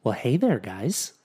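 lightly voiced movie-star impression; Ryan Reynolds. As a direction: lightly imitate a wisecracking film actor. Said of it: "You do a pretty good Ryan Reynolds".

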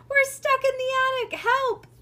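high, very loud cry for help; piercing high-pitched yell; screeched. A narrator's reading. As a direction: screech for rescue at full voice. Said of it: "took a deep breath and screeched".

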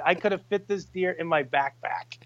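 normal talking voice

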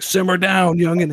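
a hint of a cranky old sailor; lightly voiced old sailor scolding a youngster; old sailor catchphrase. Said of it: "he'd be like".

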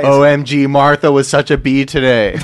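put-on laughing valley-girl gossip; mock George Washington blogger. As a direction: gush like a teen blogger. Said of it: "He had a blog".

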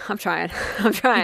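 laughing through the words; giggling at your own stumbling. Real, not acted. Host cracks up while fumbling the sponsor plug, laughing.

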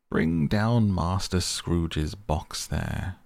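a hint of a stern schoolmaster calling out; terrible schoolmaster voice. Schoolmaster calling down the hall, mild slow stern command. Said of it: "A terrible voice in the hall cried".

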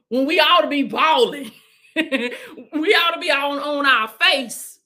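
laughing through the words; preaching through real laughter. Real, not acted. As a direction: chuckle as you say it.

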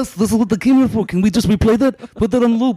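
high-pitched eager fan voice; mock excited viewers. Fans reacting to her microphone moment, mock excitement. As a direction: play a thrilled viewer, high and hammed-up. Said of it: "Now they're all like".

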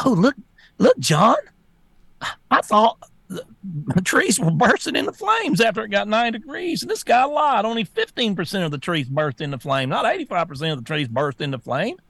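hammed-up shocked reader to John; mock elite reader. Mocking New York Times readers.

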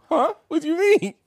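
high, baffled question; retold disbelief at her accusation; confused surprise. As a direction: thrown completely off.

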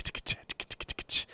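voiceless, steady hi-hat ticks; crisp mouth-made drum pattern; imitated drum ticking. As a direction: tick out a monotonous drum beat with the tongue. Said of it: "the drums just in that tick".

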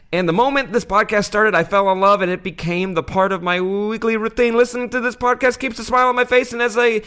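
put-on high, loud Australian accent read. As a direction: gush it in a broad Aussie accent. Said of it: "that was actually his Australian accent the whole way through".

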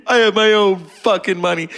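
high-pitched mock movie outburst; crazed defiance. Casino character telling off Joe Pesci, crazed and defiant. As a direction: throw it out as an acted, defiant boast. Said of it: "She played crazy really well".

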